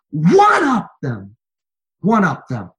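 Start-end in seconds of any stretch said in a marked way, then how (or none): 0.1-1.4 high, loud and drawn out; slow preacher shout. Acted. Sermon climax, repeated command.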